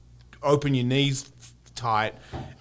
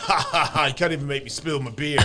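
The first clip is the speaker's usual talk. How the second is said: laughing through the words; cackling drunk taunt; drunken laughing. Retold or imitated. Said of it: "laughing like an idiot".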